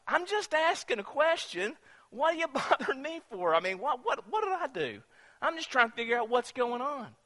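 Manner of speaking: high-pitched, acted protest; protesting younger brother. David answers his scolding brother.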